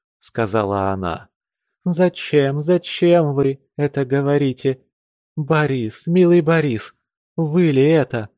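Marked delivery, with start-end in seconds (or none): 1.8-8.3 tender plea. Acted. Pleading with Boris.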